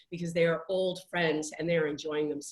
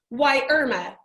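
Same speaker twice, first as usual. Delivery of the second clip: a hint of a prim old lady telling off her friend; old lady's complaint; 3 semitones higher, slower than usual. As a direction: let the old lady finally speak up about it.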